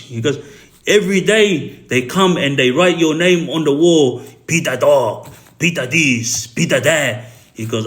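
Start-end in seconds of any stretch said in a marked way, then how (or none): 0.9-7.3 indignant Serbian accent, lightly imitated. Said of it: "this is the way he talks, his accent".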